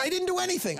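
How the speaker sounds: high, indignant denial; upset. Acted. Upset man defending himself to counselor, indignant. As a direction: deny it in a high wail. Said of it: "he's all upset".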